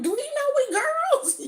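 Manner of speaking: high, squeaky disbelief; mock little-girl disbelief; incredulous girls. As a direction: play the shocked young girl. Girls' shocked reaction to sergeant.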